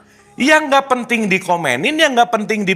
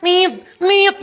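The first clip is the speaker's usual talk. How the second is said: high mock beep of an electricity meter; light mock beeping; imitating a beeping meter; 10 semitones higher than usual. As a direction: chirp it like the token alarm. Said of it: "teriak-teriak".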